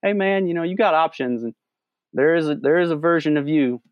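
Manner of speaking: a hint of a cheerful guru handing out wisdom; happy Buddha voice. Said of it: "the fat, happy Buddha walking through the woods going".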